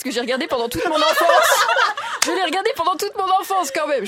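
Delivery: lightly voiced quiz host, quick and bright; a hint of the quiz host's patter; Julien Lepers impression. Presenter doing her childhood quiz host, lightly. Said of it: "ça va être une imitation".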